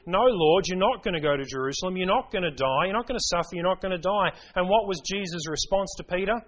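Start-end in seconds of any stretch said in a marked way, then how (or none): 0.1-4.3 louder, quick insistent protest; mock rebuke. Peter rebuking Jesus about Jerusalem, urgent protest. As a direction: Peter pleading and scolding, hammed up a little. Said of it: "He began to rebuke him".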